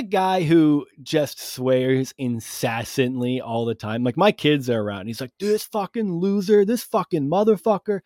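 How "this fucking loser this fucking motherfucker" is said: high-pitched mock cursing; higher voice, casual mock swearing; imitating sweary neighbor. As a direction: curse away like the foul-mouthed neighbor. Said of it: "he talks like that".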